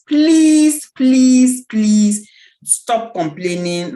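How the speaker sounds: two loud pleading pleases, then a slow, drawn-out plea; begging. Real, not acted. Speaker begs the audience to stop complaining, loud and pleading. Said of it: "I beg you by the mercies of the Almighty".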